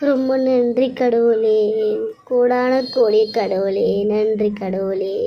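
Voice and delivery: slow, hushed thanks to God; grateful prayer. Acted. Mother-in-law alone thanking God, slow and hushed. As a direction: pray it out slowly, relieved.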